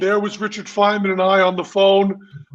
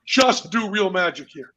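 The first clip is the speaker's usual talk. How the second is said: mock sarcastic scream; 3 semitones higher, faster than usual. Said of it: "we would scream at Johnny".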